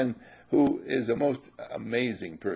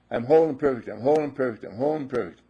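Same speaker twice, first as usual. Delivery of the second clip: spoken affirmation; faster than usual. Shown as a demonstration. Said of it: "Teach ourselves to speak our word".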